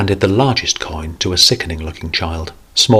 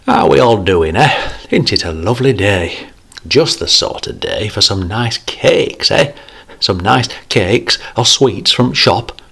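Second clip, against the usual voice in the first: light jovial grandfather voice; 3 semitones higher than usual. Acted. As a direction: play the jolly old grandad. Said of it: "role of jovial grandfather".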